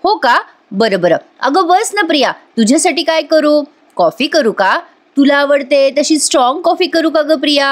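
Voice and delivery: a sugary offer of coffee to a rival; mock sweet. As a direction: kill her with kindness. Sayli sweetly ignores the taunt.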